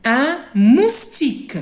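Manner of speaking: slow model word. Shown as a demonstration. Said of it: "Répétez derrière moi".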